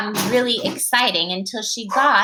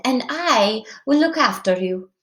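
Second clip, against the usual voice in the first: lightly witchy grandmother; witch voice; 3 semitones higher than usual. Acted. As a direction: reassure with a hint of witch. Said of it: "That's a witch voice".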